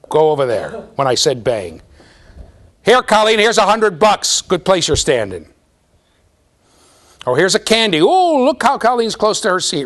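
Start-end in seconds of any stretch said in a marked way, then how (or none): 2.9-9.9 higher, louder cheery rewarding; enthusiastic praise. Shown as a demonstration. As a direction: hand out the reward with gusto. Teacher voices rewarding Colleen.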